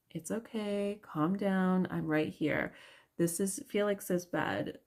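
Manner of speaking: put-on gentle, steady reassurance to a crying toddler; soothing but firm bedtime voice; calm tone. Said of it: "like, a calm tone".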